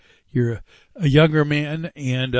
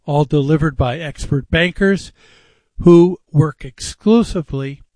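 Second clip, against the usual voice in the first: measured radio ad read with deliberate pauses; live host-read radio spot; sponsor ad read. Real, not acted. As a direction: read the sponsor copy phrase by phrase.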